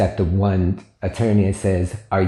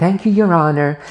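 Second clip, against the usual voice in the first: play-acted sugary polite voice, slightly pitched up; 9 semitones higher, 4 dB louder than usual. Retelling thanking the judge on being excused: imitating own sweet voice. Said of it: "sweet and kind of, you know, changed my voice a little".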